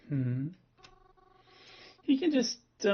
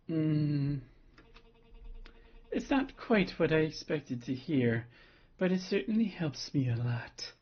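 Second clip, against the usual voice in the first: seductive voice; 3 semitones higher than usual. Acted. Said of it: "giving Twyla the seductive voice".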